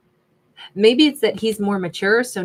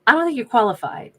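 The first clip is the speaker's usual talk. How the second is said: sassy. Real, not acted. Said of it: "my inside voice just came outside".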